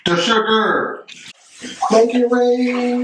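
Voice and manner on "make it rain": slow, stretched hype call; hyped. Acted. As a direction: drag it out like a party chant. Hyped pouring cocoa.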